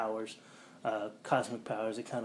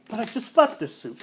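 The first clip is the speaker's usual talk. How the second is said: higher, louder whiny complaint; mock whine; 11 semitones higher, 8 dB louder than usual. Johnny complains about his new suit, mock whine. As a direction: whine like a spoiled kid.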